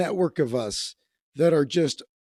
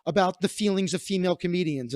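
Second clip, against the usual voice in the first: prissy lecturing voice; 3 semitones higher than usual. Retold or imitated. Mimicking the offended comic.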